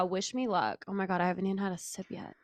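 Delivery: usual speaking voice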